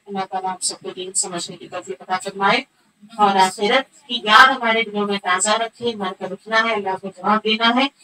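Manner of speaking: teacher ends the lesson blessing her students in prayer; closing prayer. Acted. Closing dua for the listeners.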